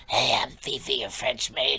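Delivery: low, lazy stoner drawl; lightly voiced laid-back beach stoner; old stoner voice. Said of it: "she talks like an old stoner from Ocean Beach".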